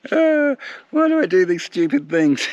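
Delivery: high, laughing through the words. Real, not acted. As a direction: giggle at yourself. Laughs around it after swim.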